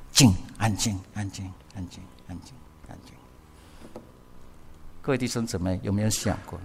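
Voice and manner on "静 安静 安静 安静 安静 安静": calm yourself down word by word, fading to a whisper; 安静 each time softer, fading out; fading to a hush. Shown as a demonstration. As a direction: repeat 安静 ever softer until it is almost gone. Preacher calming himself, repeating 安静.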